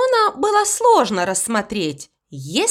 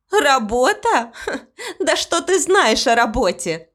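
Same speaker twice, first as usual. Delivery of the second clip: laughing scoff; 3 semitones higher than usual. Acted. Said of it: "засмеялась гостья".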